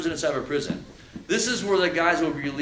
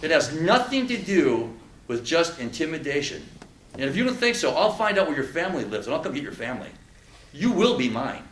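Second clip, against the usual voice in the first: loud, hard threat from an acted prison bully; acted louder intimidation aimed at a smirking audience member; menacing inmate threat; 6 dB louder than usual. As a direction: lean in and threaten him like a cell-block predator.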